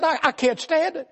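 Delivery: high, tearful whine about pain; whimpering hypochondriac. Retold or imitated. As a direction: whine like every touch is agony. Arzy moaning.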